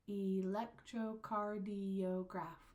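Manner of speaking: slow, evenly separated syllables. Shown as a demonstration. Teacher giving a longer word to count, slow syllables. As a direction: sound out "Electrocardiograph" piece by piece. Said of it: "Here's a longer one".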